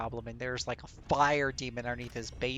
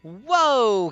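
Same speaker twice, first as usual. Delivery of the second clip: loud, high, falling whoa; amazed shout; 7 semitones higher, 10 dB louder than usual. Real, not acted. Gamer seeing a huge hit on a spider, amazed shout. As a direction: burst out in real astonishment.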